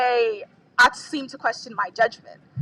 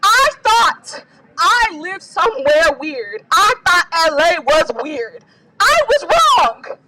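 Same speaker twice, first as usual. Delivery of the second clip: crying; 2 semitones higher than usual. Real, not acted. Crying while speaking at rally.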